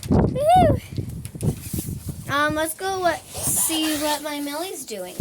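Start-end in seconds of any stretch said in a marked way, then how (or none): 0.1-0.8 high, loud woohoo cheer; excited whoop. Real, not acted. Cheering to the camera in her shed, excited whoop. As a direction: whoop with glee.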